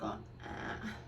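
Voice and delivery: breathy sound with mouth stretched open; mascara face. Shown as a demonstration. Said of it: "make the mascara face".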